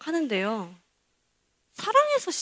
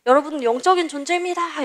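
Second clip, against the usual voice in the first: pastor declaring it, a touch higher and louder; mock proclamation; 5 semitones higher, 3 dB louder than usual. Pastor proclaiming to the congregation, mildly imitated. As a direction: proclaim it like a preacher. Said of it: "선포를 하시는데".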